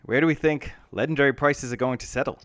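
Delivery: put-on a light New Zealand accent; a hint of a New Zealand accent, lightly done; Murray New Zealand accent. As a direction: play it like a Kiwi from a comedy show. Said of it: "so I'll do it in a New Zealand accent".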